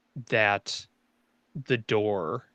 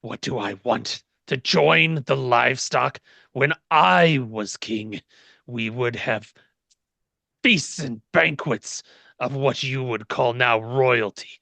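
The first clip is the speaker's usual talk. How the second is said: louder, indignant fallen king; angry king voice; 5 dB louder than usual. Acted. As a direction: rage at their decline. GM voicing the king.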